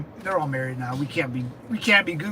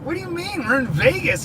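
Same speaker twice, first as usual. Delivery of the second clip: high, incredulous "what do you mean"; a jump in pitch, like you can't believe it; surprised disbelief; 8 semitones higher than usual. Retold or imitated. Retold disbelief at friend.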